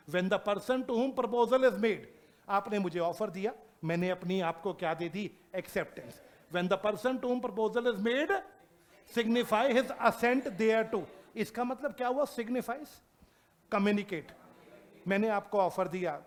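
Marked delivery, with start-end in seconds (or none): 0.1-11.0 drawn-out word-by-word reading; slow dictation. Shown as a demonstration. Teacher dictating the acceptance definition, very slow. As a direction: read it slowly so they can write. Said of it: "dictating definition to class".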